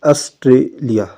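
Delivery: Australia drawn out, T and L both pressed; slow stressed word. Shown as a demonstration. Teacher drilling the word for memory, slow. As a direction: say Australia slowly, syllable by syllable.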